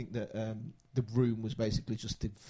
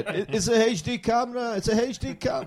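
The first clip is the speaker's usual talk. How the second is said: put-on high, odd East Asian accent; 10 semitones higher, 8 dB louder than usual. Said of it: "That's my, my impression of Tommy Wiseau".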